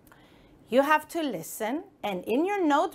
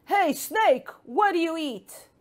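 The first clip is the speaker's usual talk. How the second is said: frog shouting; 5 semitones higher than usual. Acted. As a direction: call out to the snake. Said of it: "and shouted".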